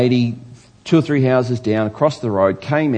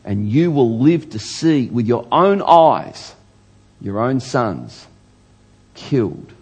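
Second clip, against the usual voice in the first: prophetic warning; slower than usual. Acted. Jeremiah warning the king in court, slow grave pronouncement. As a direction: spell out the sentence with heavy pauses. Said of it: "The next bit of it is this".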